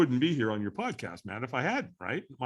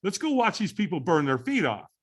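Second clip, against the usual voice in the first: talking oneself into it; 6 semitones higher than usual. Retold or imitated. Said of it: "I thought".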